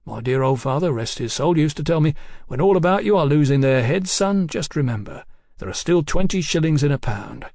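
lightly voiced chatty tradesman king; a hint of a garrulous bill-sticker, unruffled; bill-posting king.

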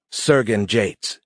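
slow, deliberate stress on "Sergen"; emphasized rank. A narrator's reading. Officer addresses the warrior by rank, emphatic. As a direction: lean slowly on the word "Sergen". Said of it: "she emphasized his rank".

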